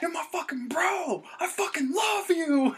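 put-on high, drawn-out drunken wail; imitated drunk guys. Drunk friends in a video message, wailing their love. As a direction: gush it loudly, stretching the words. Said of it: "these two drunk guys going".

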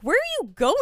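high, loud retold demand; calling after someone. Detective shouts after woman running away, exasperated demand.

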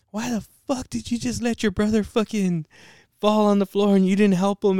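high-pitched angry mom imitation; mad mom. Mom calls about the hurt brother, imitated mad scolding. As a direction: scold like a mother, pitched well up. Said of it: "my mom was fucking mad".

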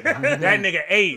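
slow, high words broken up by laughter; laughing disbelief. Real, not acted. Reacting to the kid's comeback, laughing out loud. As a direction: squeeze it out through a laugh.

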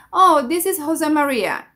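mildly insistent English correction; correcting the caller. Shown as a demonstration. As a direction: gently set them straight. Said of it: "he escuchado personas que dicen". (corrigiendo al reclutador)

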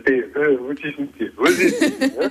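laughing, pushy tough-guy imitation; macho lout voice. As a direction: play a cocky street thug, half laughing. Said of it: "so wie es das normalerweise von den Proleten kennst".

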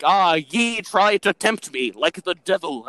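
slow, lofty archaic preacher; old Puritan voice. Retold or imitated. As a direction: intone it like a pious settler. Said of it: "Everyone talked weirdly".

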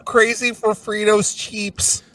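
zany cartoon voice. Cereal ad parody continued.

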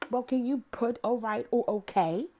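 hammed-up needling man; mocking quote. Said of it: "He said".

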